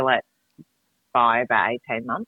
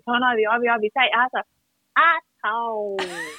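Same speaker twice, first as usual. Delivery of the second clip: put-on coaxing kids; 9 semitones higher than usual. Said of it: "they had Ivy going".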